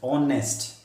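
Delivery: ऑनेस्ट opened on a clear vowel; silent H. Shown as a demonstration. Teacher explains the vowel sound, ऑनेस्ट with no H. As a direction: say ऑनेस्ट with the H dropped. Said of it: "H को pronounce नहीं करेंगे".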